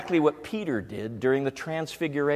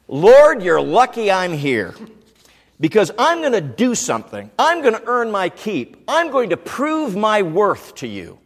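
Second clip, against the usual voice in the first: self-important; 4 semitones higher, 4 dB louder than usual. Retold or imitated. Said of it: "it reveals an attitude".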